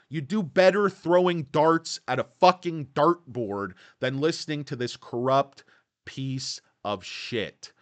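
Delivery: loud, furious jab at the analyst; angry rant. Real, not acted. Stock vlogger ranting at a bad analyst, furious. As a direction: vent the anger hard. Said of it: "Guys, sorry for the rant".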